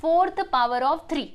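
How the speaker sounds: fourth power of three said slowly and clearly; slow demo reading. Shown as a demonstration. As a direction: model the alternate reading slowly. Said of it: "कैसे".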